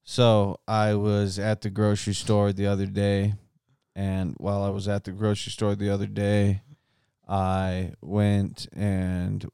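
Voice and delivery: measured, monotonous storytelling; put-on droning cadence. Host telling a dull grocery anecdote, droning cadence. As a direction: plod through it, trailing down at the ends. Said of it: "why is his voice sounding like that".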